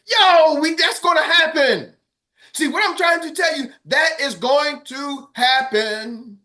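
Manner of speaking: shouted promise; loud. Real, not acted. Coach shouting his promise to the team, loud. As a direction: belt it out that it will happen.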